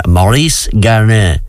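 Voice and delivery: slow, hammed-up French accent on the name; mock French accent. Radio host naming the Tour de France winner, in mock French accent. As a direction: say Maurice Garin like a Frenchman, slowly. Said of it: "I'm doing my best French accent now".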